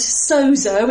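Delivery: "sozo" in a lightly put-on Greek accent. Shown as a demonstration. Preacher quoting the original Greek word in a mock Greek accent. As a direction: give "sozo" your best Greek accent, half joking. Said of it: "in my best Greek accent".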